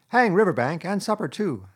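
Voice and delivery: hearty. Acted. Rat to reluctant Mole, waving off supper: hearty and loud. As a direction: brush the objections aside with gusto. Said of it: "said the Rat heartily".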